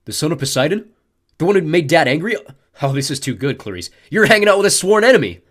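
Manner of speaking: bully gloating about the sworn enemy; gleeful. A narrator's reading. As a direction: gloat over the discovery. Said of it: "He looked surprised".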